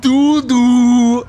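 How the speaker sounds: dopey voice. Retold or imitated. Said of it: "That's what you sound like".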